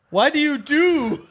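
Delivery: high, loud, slow wail of protest; anguished whine. Real, not acted. Fan mourning Hughes, wails a high slow protest. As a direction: plead with the show in mock grief.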